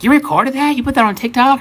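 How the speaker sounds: high-pitched mock disbelief; incredulous quote. Customer shown race video by bartender, high incredulous questioning. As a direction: imitate an indignant, high-pitched demand.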